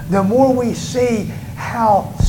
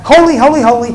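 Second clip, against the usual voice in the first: proclaiming. Acted. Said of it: "one called out to another and said".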